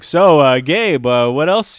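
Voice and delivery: loud, halting, badly faked British; slipping British accent. Friend posing as cafe owner on phone, slipping British accent. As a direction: imitate a British accent falling apart. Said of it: "he kept on dropping his accent".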